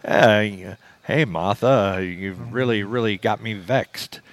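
lightly voiced old-timey movie tough, slowing at the end; a hint of a hammed-up film character drawling over being vexed; mock Nicolas Cage-style line. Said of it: "vernacular that they use".

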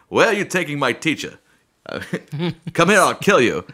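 lightly voiced old-time movie hero; a hint of a proper old radio hero; Kung Fu hero voice. Shown as a demonstration. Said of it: "the hero voice of every Kung Fu movie".

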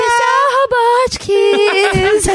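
high, very slow announcer call; mock announcer. Host announces an imagined robot episode, slow and high. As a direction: announce it like a hammed-up show title.

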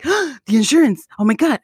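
sudden high panic, slowed; panicked gasp. Retold or imitated. Husband waking in a panic about insurance. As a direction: jolt awake in alarm. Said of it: "he's like, gasps".

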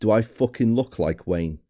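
put-on gruff, strong Welsh accent. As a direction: growl it in a thick Welsh accent. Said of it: "saying gruffly in a strong Welsh accent".

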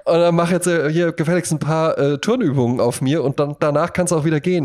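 hammed-up commanding lover; mock bossy woman. Woman ordering her toy boy around, mock bossy.

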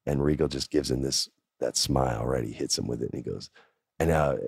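usual speaking voice

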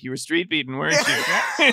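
a touch of smug, knowing accusation. Retold or imitated. Parents teasing the crash victims, mildly smug. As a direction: arms crossed, tease them lightly. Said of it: "they crossed their arms like".

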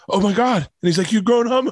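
quoting the film while choking up a little; getting emotional. Real, not acted. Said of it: "I'm getting emotional right now".

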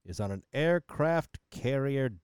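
judge voice. Acted. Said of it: "Back to Judge Voice".

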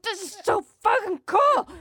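thrilled squeal; giddy delight. Retold or imitated. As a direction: gush like everything is perfect. Giddy in the bathtub.

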